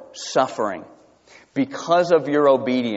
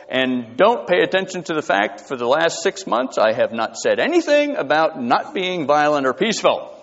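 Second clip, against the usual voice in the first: mock politician. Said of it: "like Joe Biden today".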